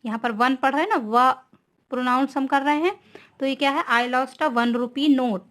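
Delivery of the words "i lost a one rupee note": reads the sentence very slowly, word by word; slow dictation. Shown as a demonstration. Teacher dictating an example sentence to students, very slow. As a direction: spell it out slowly for the class. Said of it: "teacher rereads example slowly".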